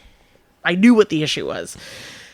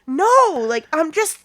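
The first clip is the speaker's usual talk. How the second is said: slow, drawn-out explanation; 9 semitones higher, much slower than usual. Retold or imitated. Manager defending herself.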